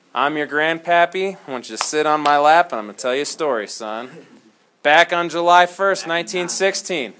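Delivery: lightly voiced old grandpa spinning a war story; a hint of a dramatic grandpa telling a tale to his grandson; story time with Grandpa. Shown as a demonstration. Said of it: "Here's what this sounds like".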